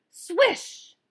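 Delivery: high, loud imitated net swish; swish sound. A narrator's reading. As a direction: voice the ball dropping in. Ball through the net.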